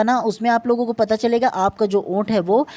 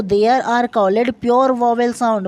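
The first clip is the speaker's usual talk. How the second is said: slow dictation; much slower than usual. Shown as a demonstration. Rereads the definition for students.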